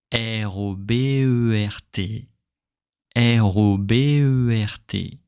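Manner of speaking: flow through R O B E R T; connected spelling. Shown as a demonstration. Teacher spelling the name for students. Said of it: "it's very much like a song".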